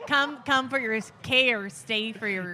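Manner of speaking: mock Minnesotan, slowing on the slogan; playful imitation Minnesotan; Minnesotan accent. Shown as a demonstration. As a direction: try out a cute Minnesotan accent. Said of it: "Do my Minnesotan accent".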